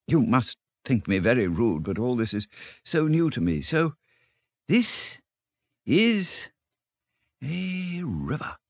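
a lightly voiced small Mole, rising high and slowing into awe; timid Mole in wonder. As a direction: let the shy Mole marvel, stretching out the last words. Mole marvelling at the river.

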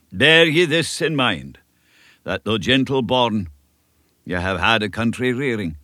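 lightly voiced elderly Scottish minister, earnest; a kindly country minister giving counsel; old Scots minister. Minister advising young Davy, a light Scots earnestness.

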